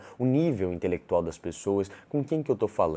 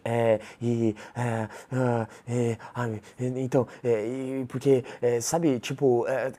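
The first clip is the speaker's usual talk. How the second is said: stumbling filler sounds, higher pitched, searching for words; hesitant; 4 semitones higher, slower than usual. Shown as a demonstration. Coach mimicking someone who speaks hesitantly, halting and unsure. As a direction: hesitate on every word with drawn-out ums. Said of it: "Se você falar de forma hesitante".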